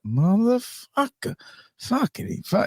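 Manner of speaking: squeaky put-on cursing cop; imitating a cop. Retelling The Wire scene, mock high cop voice. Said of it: "One guy's, he's like".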